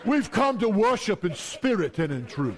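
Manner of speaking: lightly hammed-up churchgoer voice; pretend piety. Quarrelling family arriving at church, mock-pious declaration. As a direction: declare it with fake holiness. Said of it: "show 'em some pretending".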